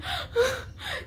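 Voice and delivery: high sobbing gasp; acted-out happy sob; imitated crying. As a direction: suck in air as if sobbing. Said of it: "Eu saí assim".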